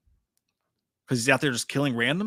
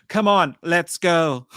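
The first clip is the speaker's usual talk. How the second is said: slow, drawn-out movie line; slow dubbed line; 3 semitones higher, 6 dB louder, much slower than usual. Retold or imitated. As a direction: stretch it like a dubbed trailer. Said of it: "you got Laurie going".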